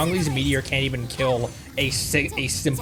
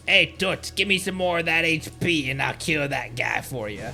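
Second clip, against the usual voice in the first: her bros; 3 semitones higher than usual. Acted. Player mimics her bros bargaining for health, mock bro voice. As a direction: put on a pushy bro voice calling her Toots. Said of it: "that's what her bros sound like".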